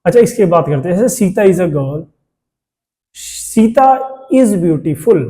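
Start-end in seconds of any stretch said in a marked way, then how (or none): 3.1-5.2 slow, deliberate dictation of the example; teacher reading the example very slowly; slow example sentence. Shown as a demonstration. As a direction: spell it out word by word for the class. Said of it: "अब क्या ये अच्छा लग रहा है?".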